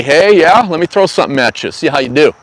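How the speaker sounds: mock challenge from Mother Nature; Mama Nature taunting. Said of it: "Mama Nature say".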